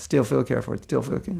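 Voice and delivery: softly rattled-off tongue twister; tongue-twister rattle. Shown as a demonstration. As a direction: run "still feel cared for" together softly. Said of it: "Say that ten times fast".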